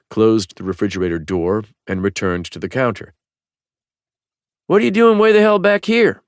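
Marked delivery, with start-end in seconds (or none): 4.7-6.2 much higher, louder, words round a cigarette in the mouth; high shopkeeper voice, cigarette in mouth; talking around a cigarette. A narrator's reading. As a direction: speak past the cigarette between your lips. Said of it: "the woman asked around her cigarette".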